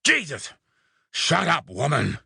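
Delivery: high frustrated outburst at a noisy goose; yelled. Acted. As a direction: snap at the squealing box to shut up. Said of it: "I yelled".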